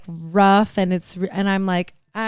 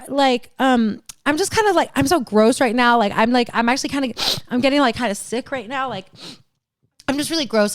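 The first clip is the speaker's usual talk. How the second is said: flustered apologizing; 4 semitones higher, faster than usual. Retold or imitated. Retold escape from the roommate, apologizing.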